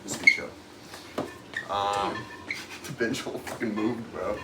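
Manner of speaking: echoey locker room, far from mic; recorded in an echoey locker room. Real, not acted. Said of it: "We're still in the locker room right now".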